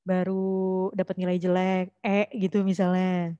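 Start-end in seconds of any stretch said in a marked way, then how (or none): 0.1-2.3 slow, drawn-out pretend sadness; mock sad. Shown as a demonstration. Teacher demonstrating sadness over a bad grade, mock sad. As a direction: act mildly down, dragging the words. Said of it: "kalau kamu sedih nih".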